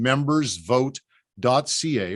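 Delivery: spelling out a web address slowly; slow dictation. Shown as a demonstration. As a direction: say it so they can write it down. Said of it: "Write that down".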